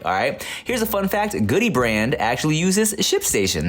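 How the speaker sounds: upbeat casual sponsor read; chatty host-read advert; podcast ad read. Acted. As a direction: sell it to listeners like a buddy.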